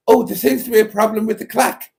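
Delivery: high, fast mock posh voice; imitating my own voice. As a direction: parody the way I talk. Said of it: "maybe I do talk like that".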